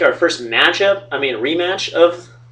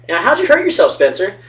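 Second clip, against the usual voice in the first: imitating a curious asker; 5 semitones higher than usual. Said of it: "how many times you had to answer".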